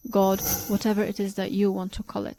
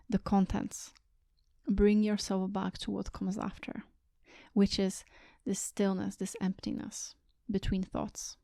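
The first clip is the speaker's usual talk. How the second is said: guided meditation. Real, not acted. Teacher guiding listeners to sit and watch their thoughts, calm meditation voice. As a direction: guide them gently inward, leaving space between phrases.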